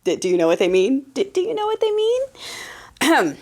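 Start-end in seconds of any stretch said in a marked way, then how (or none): 1.1-3.3 higher, slow, drawn-out tease; slow teasing question. Shown as a demonstration. Host teasing viewers with the obvious answer, slow and higher. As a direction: stretch it out knowingly.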